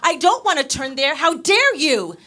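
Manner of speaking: loud mock outrage, slowing on how dare you; indignant. Woman refusing her salsa partner, loud mock outrage.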